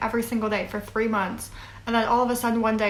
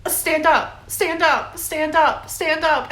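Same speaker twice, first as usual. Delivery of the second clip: retold commands, raised and loud; shouting stand up; 6 semitones higher, 5 dB louder, much slower than usual. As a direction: bark it out like guards ordering her up. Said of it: "all of the girls around me just be like".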